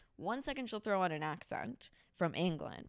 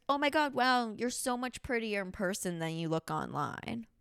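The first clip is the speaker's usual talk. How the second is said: mocking insecure girl; 2 semitones higher than usual. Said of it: "what any insecure girl would do".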